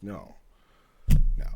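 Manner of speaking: usual speaking voice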